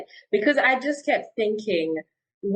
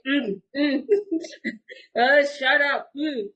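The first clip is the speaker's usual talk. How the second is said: mock annoyed groan; 4 semitones higher than usual. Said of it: "in my mind, I'll be saying".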